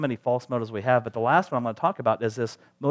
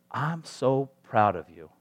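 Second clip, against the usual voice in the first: slow, heartfelt praise; tender fatherly pride; slower than usual. Acted. What we long to hear from our Heavenly Father, tender. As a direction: let each word land slowly and sincerely.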